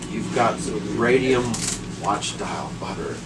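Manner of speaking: spelled out slowly for her; slow careful repeat of radium watch dial butter; slow, deliberate repeat. Retold or imitated. Repeating himself slowly to a puzzled wife. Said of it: "And I said".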